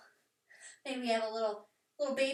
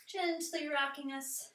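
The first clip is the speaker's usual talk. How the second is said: gentle; 4 semitones higher, slower than usual. Shown as a demonstration.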